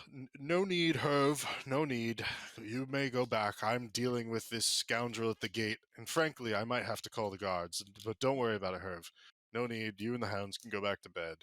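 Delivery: a hint of a haughty butler; lightly voiced prim servant brushing him off; stiff butler. GM's butler turning the detective away at the gate, lightly haughty. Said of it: "the butler turns and he goes".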